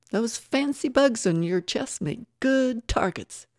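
high, loud jeering threat; loud, menacing taunt, short of a full scream. A narrator's reading. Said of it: "Tara screamed".

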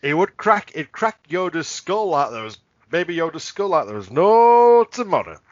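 put-on Darth Vader with a light Yorkshire accent; a menacing Vader in mild Yorkshire. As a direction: Vader threat in understated Yorkshire. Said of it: "Why is he Yorkshire?".

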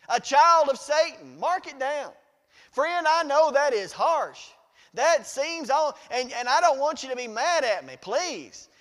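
loud, emphatic pulpit delivery; forceful preaching. Real, not acted. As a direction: drive it home from the pulpit.

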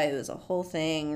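ordinary delivery

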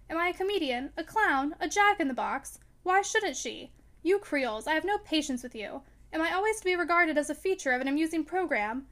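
put-on a young man stung, pushing back hard; heated outburst. Robert protesting to Madame Ratignolle, in a mildly heated outburst. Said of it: "his heated outburst".

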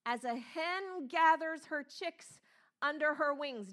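rising, pleading voice of a grieving Jesus; Jesus lamenting over Jerusalem, heartbroken and pleading. Acted. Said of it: "And he says".

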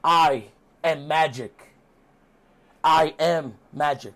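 slow, portentous impression; lightly theatrical, drawn-out proclamation; Matt Hardy. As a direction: declare it word by word. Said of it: "And Matt Hardy's like".

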